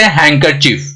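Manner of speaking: हैंकरचीफ as "hang-ker-chief", no D; silent D. Shown as a demonstration. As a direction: run the N straight into K in हैंकरचीफ. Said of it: "हैंकरचीफ बोलेंगे". (हैंकरचीफ में ड न बोलें)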